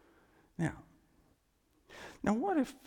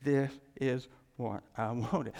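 contented God; 3 semitones lower than usual. Acted. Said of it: "God's happy with this".

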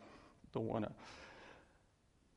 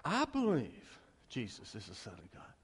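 a lightly mocking parrot of the creed; mocking echo; 4 dB quieter than usual. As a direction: echo it back as if it means nothing. Boy echoes the pastor's creed.

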